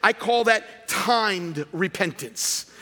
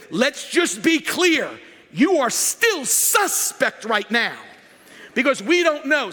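slow, firm, slightly raised warning; stern pastor; 4 semitones higher than usual. Retold or imitated. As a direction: lay it down slowly to the husband. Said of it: "I said".

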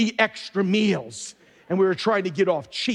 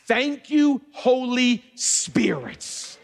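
fervent praise; 5 semitones higher, much slower than usual. Real, not acted. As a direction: lift up the thanks with fervor. Praising the Holy Spirit.

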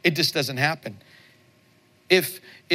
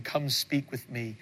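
gentle call; 5 dB quieter, slower than usual. Retold or imitated. Voicing God's gentle call.

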